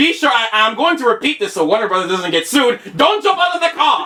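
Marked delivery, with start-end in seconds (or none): 3.0-4.1 very high, put-on Jamaican accent. Quoting the announcer in the car scene: imitating a Jamaican accent. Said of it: "With that Jamaican accent".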